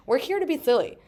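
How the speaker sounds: playful, lightly voiced kid; a hint of a silly kid voice; silly inner child. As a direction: declare it like a gleeful child. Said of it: "Like, she's like".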